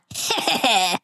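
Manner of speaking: evil chuckle. Pretend. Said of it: "But I think he wants your laugh".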